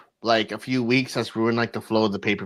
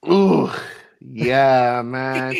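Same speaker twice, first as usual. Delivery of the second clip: drawn-out groan of recognition; groan, then agree knowingly; loud "ooh" groan easing off; 4 dB louder, much slower than usual. Real, not acted. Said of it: "Do you know why I'm groaning?".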